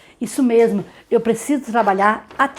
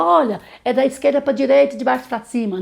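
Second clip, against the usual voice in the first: mock teacher instruction; 4 semitones higher than usual. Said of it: "ensinando pra ela".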